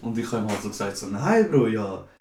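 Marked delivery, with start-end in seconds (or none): 1.1-2.1 retort. Retold or imitated. Retorting to angry casino friend.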